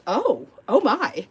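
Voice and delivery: slow, drawn-out mock shock. Sweet friend hears the cat's name, slow mock shock. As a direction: let the shock sink in slowly.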